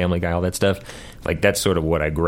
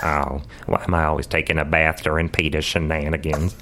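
cartoon neighbour's lament; Cleveland; 2 semitones lower than usual. Guest plays cartoon man after bathtub fall, resigned impression. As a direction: moan lightly in a cartoon voice. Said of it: "recurring thing where Cleveland gets".

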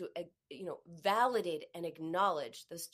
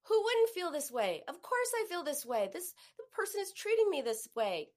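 self-validation; 3 semitones higher than usual. Shown as a demonstration. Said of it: "validate and acknowledge".

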